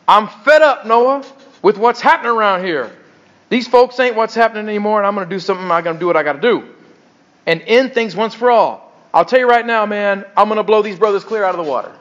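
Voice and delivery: put-on restrained Black church accent, fed up; lightly put-on Black vernacular, laying down the law. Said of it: "I'll try not to put on too much blacks in here".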